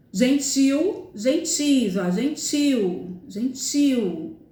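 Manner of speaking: "Gentil" with the final "til" leaned on; stress on last syllable. Shown as a demonstration. Teacher showing students where the stress falls, final syllable of "gentil" stressed. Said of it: "O tio é a sílaba mais forte".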